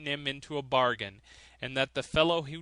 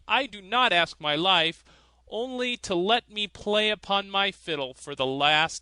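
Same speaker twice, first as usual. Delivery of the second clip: higher, louder earnest request; earnest plea; 5 semitones higher, 5 dB louder than usual. A narrator's reading. Countryman asking the judge to let him play, higher and louder. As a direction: insist gently on one last tune.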